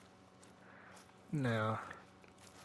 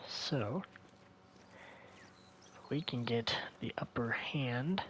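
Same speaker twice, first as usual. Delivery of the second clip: whispering; 6 dB quieter than usual. Real, not acted. Hunting, keeping quiet.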